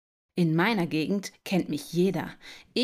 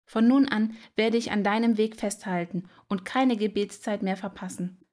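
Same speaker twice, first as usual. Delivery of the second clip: repentant prayer; 2 semitones higher than usual. A narrator's reading. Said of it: "fing an zu beten".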